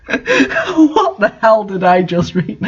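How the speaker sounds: slow, laughing through the words; laughing disbelief. Real, not acted. Reader baffled by the fanfic, laughing slowly. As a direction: ask it while still cracking up.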